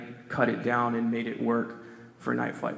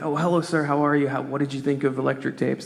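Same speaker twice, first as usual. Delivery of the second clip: butter up the big-time producer, politely; polite and proper; 5 dB louder than usual. Retold or imitated. On the phone with the producer, polite and proper. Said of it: "polite and proper".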